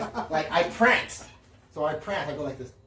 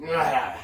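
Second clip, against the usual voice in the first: mock startled yelp; 6 dB louder than usual. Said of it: "I hear you go".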